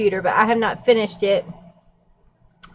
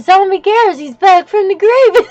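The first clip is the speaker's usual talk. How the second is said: laughing announcement; 7 semitones higher, 6 dB louder than usual. Retold or imitated. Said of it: "I said".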